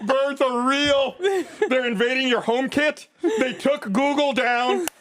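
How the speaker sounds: mock conspiracy rant.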